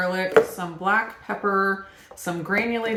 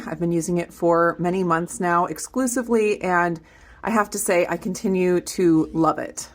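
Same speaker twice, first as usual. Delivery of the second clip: upbeat sponsor read, a bit louder; 3 dB louder than usual. Acted.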